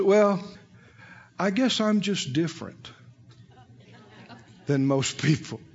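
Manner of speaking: mock martyr. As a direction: imitate someone quietly feeling set apart. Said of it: "it's a form of pride".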